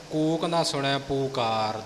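ਪੂਕਾਰ with a long "oo" in the first syllable; long U demonstration. Shown as a demonstration. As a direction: teach it as "poo-kaar", ਪੂਕਾਰ. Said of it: "ਦੁਲੰਕੜ ਦੇ ਨਾਲ ਹੈ ਪਾਠ". (ਪੂਕਾਰ ਦੁਲੈਂਕੜ ਨਾਲ, ਲੰਮਾ ਊ)

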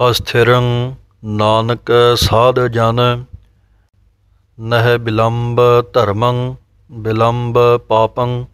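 slow, measured recitation of a sacred verse; slow scripture recitation. Shown as a demonstration. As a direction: recite each word deliberately and slowly. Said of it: "ਬਿਲੰਬ ਪਾਠ ਪੋਲਾ ਬੋਲਣਾ ਹੈ".

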